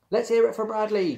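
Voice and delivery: high, loud rallying call; rally the crowd for a cheer. A narrator's reading. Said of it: "called the lion".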